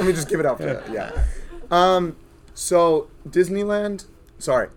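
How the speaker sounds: hoarse from screaming on rides; voice gone. Real, not acted. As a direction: talk with a worn-out, screamed-out voice. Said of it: "my voice is gone".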